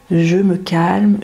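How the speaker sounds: Je me calme stretched out slowly; slow self-talk. Shown as a demonstration. Talking yourself down from panic, slow and calm. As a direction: let each word settle, very slowly. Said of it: "vous parler tranquillement et gentiment".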